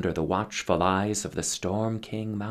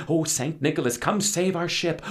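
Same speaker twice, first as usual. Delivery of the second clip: raised pleading prayer; praying; 6 semitones higher than usual. Acted. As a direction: call out to the saint in hope. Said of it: "they began to wish and pray".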